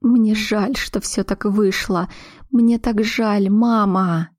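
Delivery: sobbing apology. Acted. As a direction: hold back sobs as you apologise. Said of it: "всхлипнула".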